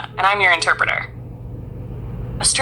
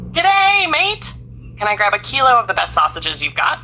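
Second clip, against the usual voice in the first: Australian accent; 3 semitones higher than usual. Shown as a demonstration. Australian customer greeting the butcher, light Australian accent. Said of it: "What is the sound exactly of their English?".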